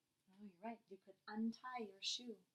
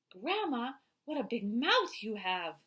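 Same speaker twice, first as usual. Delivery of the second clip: Red Riding Hood voice; 10 dB louder, slower than usual. Acted. Reading Red Riding Hood's line.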